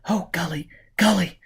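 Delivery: a tearful cry of his name; sobbed. A narrator's reading. Woman sobbing to Gully in despair. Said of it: "Gisbella sobbed".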